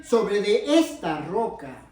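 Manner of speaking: slow quote, "esta" stretched and weighted; measured, emphatic "esta" within a slow phrase; stress on "esta". Shown as a demonstration. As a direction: linger deliberately on "esta". Shows which word carries meaning.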